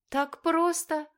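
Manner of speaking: excited exclaim. A narrator's reading. Girl amazed at the easy automatic car, high and loud. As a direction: gasp it out thrilled. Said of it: "воскликнула она".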